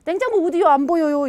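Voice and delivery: put-on a kid complaining he can't see it; whining child. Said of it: "이래요".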